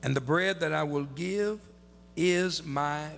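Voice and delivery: measured Bible reading in spaced phrases; scripture reading. Acted. Preacher reading the verse to his congregation, measured and deliberate. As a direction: read the verse solemnly, pausing after each phrase.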